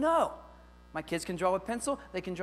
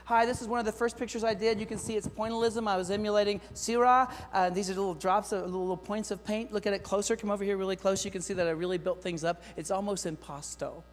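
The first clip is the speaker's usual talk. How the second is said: student portfolio video; 3 semitones higher, 4 dB louder than usual. Retold or imitated. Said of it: "video walk-bys of their portfolio".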